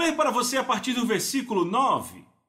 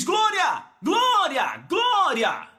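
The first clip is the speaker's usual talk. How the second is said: high, loud shouts of glória; shouted glória; 10 semitones higher, 3 dB louder, much slower than usual. Retold or imitated. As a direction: shout it out as if moved by the Spirit. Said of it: "e você diz".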